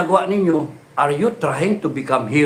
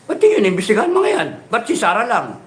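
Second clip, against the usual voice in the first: indignant high outburst; 4 semitones higher than usual. Real, not acted. Angry rally question.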